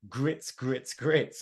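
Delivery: lightly mocked Southern drawl; a hint of Southern American twang; Southern US accent. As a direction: imitate a Southern insult. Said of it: "They're all, like, Southern insults".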